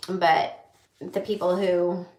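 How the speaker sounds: ordinary talk, nothing marked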